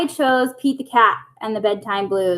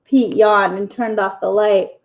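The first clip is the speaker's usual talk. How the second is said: lively bedtime story reading; reading to children. A narrator's reading. Teacher reading a bedtime story to her pupils, lively storytelling. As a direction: read it like a picture book for little kids. Reads picture book aloud to kids.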